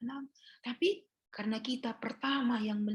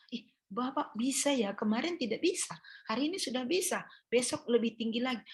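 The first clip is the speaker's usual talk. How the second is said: cheering encouragement; 5 semitones higher than usual. Retold or imitated. Nurse encouraging a recovering patient, higher cheerful praise. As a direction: cheer him on like a proud coach. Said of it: "Dukungan apa?".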